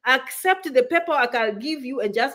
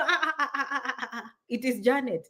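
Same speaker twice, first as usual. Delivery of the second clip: relieved laughing; 6 dB quieter than usual. Retold or imitated. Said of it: "So when they remember".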